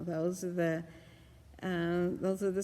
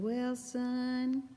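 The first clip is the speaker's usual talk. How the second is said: higher, mock-weepy movie mother; tearful mother; 6 semitones higher than usual. Crying mother answering her son in a film retelling, mock tearful. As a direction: lightly imitate a crying mama's drawn-out reply. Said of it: "the mother's just sitting there crying".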